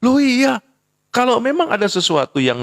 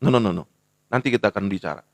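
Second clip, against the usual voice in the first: calm firm father; 7 semitones lower, faster than usual. Retold or imitated. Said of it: "bapak juga harus bijaksana".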